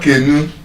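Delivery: Kenu as KAY-nu with a full first vowel; wrong pronunciation. Shown as a demonstration. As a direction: lean on the first syllable of Kenu. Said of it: "All of them are still wrong".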